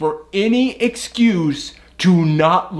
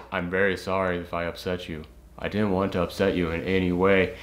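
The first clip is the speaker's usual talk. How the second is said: fake polite apology; 9 semitones lower, 9 dB quieter than usual.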